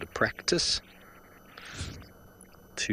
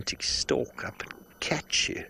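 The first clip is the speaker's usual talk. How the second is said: hushed whisper; 3 semitones higher, 3 dB quieter than usual. Acted. Suspense about stalking predators.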